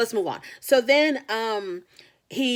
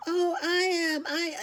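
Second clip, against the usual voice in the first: very high squeaky mock Mickey Mouse; mock his squeaky voice like a cartoon mouse; 12 semitones higher, slower than usual. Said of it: "he sounded like Mickey Mouse to me".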